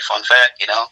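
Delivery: pointed fun fact, mostly plain; deadpan hint. Retold or imitated. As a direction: say it like a veiled warning. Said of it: "his way of saying".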